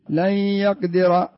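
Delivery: لن يقدر with noon merged into ya, slow. Shown as a demonstration. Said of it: "انظر هنا الأمثلة". (إدغام النون في الياء ببطء)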